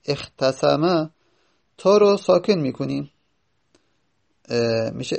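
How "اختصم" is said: اختصم stretched out slowly; slow teaching demo. Shown as a demonstration. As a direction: spell out اختصم for the class. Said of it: "teacher spells out form".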